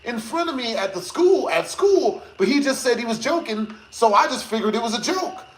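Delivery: put-on a light girly retelling voice; imitating girlfriend. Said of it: "she was like".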